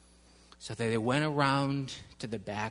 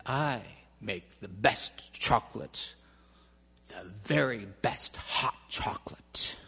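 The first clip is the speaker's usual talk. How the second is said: secretive boast; 5 semitones lower than usual. A narrator's reading. Mr Jones boasts softly.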